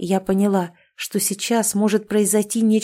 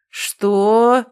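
louder, furious roar; roaring what; 2 semitones higher, 6 dB louder than usual. Acted. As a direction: bellow it at her. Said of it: "взревел он".

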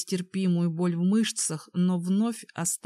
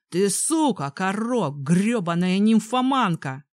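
loud enraged insult; furious shout; 5 dB louder than usual. Acted. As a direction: yell it in fury. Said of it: "взревел он".

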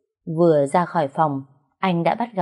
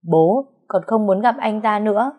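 upset refusal; 4 semitones higher than usual. Acted. Daughter refuses to meet husband.

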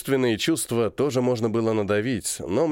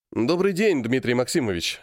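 cheerful. Acted. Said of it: "радостно сказал я".

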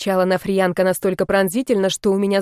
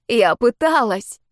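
hoarse and quiet; 3 semitones higher, slower than usual. A narrator's reading. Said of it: "Голос звучал хрипло и очень тихо".

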